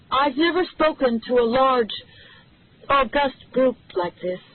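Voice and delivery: nervous woman facing the press, voice booming; booming nervous opening. A narrator's reading. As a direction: push the voice out, surprised by your own volume. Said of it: "Her voice boomed across the lawn".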